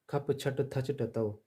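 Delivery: खप छट थच टतौ slowly, each cluster apart; slow careful reading. Shown as a demonstration. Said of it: "इसको पढ़ें".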